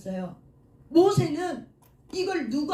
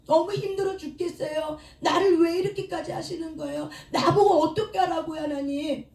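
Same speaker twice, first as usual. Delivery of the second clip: higher-pitched, exasperated plea to God; pleading complaint; 4 semitones higher than usual. Acted. Believer crying out to God over hardship, pleading complaint. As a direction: protest as if at the end of your rope.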